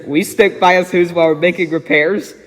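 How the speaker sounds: plain reading voice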